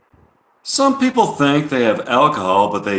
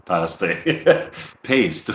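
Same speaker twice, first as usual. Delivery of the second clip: laughing; 3 dB quieter, much slower than usual. Real, not acted. Laughs at own misread.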